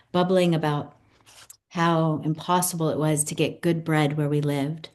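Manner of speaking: even, storytelling poetry reading; poem reading. Acted. Poet reading her arrival-in-Rome poem to listeners, even and measured. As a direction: let the memory unfold steadily.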